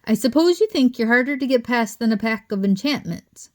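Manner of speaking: a stern scolding building to anger; stormed. A narrator's reading. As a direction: tear into them like a furious headmistress. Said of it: "she stormed".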